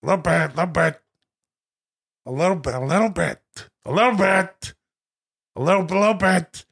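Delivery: lightly mannered, squeezed-down catchphrase; Al Pacino doing Robert De Niro. Acted. Pacino quoting De Niro over and over, lightly mannered mimicry. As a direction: slur "little" into a mannered impression. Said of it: "This is Pacino's impression of De Niro".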